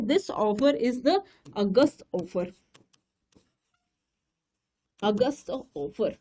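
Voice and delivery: slow, stressing "अगस्त ऑफर" for memory; slow emphasis. Shown as a demonstration. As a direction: drive the name "अगस्त ऑफर" home slowly. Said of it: "नाम क्या था आपको याद रखना है". (नाम याद कराने के लिए धीरे और ज़ोर से)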